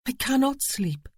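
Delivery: high, upset protest. A narrator's reading. Eve refusing Aidan's order to sleep, upset. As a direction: push back in distress. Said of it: "she protested".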